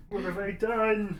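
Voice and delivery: laughing mock lament; mock despair. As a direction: wail it in mock regret, laughing. Mock despair after 'ingest this poison'.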